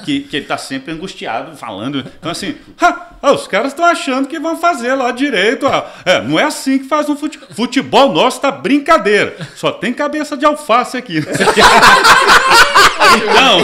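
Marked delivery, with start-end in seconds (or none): 2.8-11.2 high, loud, anguished grumbling; Lélio angustiado. Retold or imitated. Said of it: "botei Lélio angustiado". 11.3-13.1 high, loud giggle mimic; Lélio's little laugh. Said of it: "e a risadinha dele".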